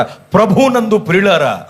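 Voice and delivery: lightly mimicked meeting call; church meeting announcer. (కూటం ప్రకటనను కొద్దిగా అనుకరిస్తూ)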